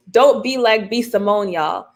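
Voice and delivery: lightly imitated Nina-style accent; a hint of a colleague's accent, dropping on the last word. Relaying a colleague's warning to the room, light accent imitation. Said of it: "say that in my best Nina accent".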